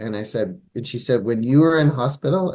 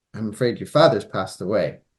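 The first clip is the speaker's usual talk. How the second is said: acted-out, quick, teary crying voice; 3 semitones lower than usual. Retelling his mother giving his father the news in the car, imitating tearful speech. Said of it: "my mother says tearfully to him".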